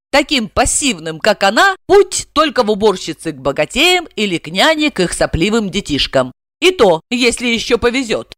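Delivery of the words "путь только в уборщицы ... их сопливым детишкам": ordinary delivery, nothing marked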